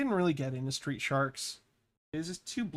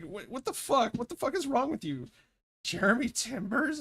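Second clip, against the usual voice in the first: higher, louder mock outrage; baffled outburst; 9 semitones higher, 4 dB louder than usual. Retelling own reaction to coworker, higher mock-outraged disbelief. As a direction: replay the confusion as half-yelled disbelief.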